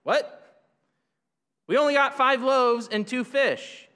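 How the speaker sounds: mild mock surprise at how little they have; a touch of retold surprise; surprised. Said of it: "they're kinda surprised".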